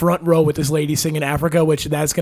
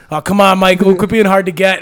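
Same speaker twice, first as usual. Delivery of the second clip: teasing chirp; 4 dB louder than usual. Retold or imitated. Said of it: "just chirping".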